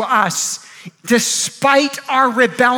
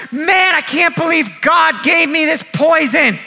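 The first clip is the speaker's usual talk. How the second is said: mock wailing; 2 semitones higher than usual. Preacher acts a bitten man in his tent, mock wailing. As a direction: wail it out, hammed-up. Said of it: "he's just wailing, and he's like".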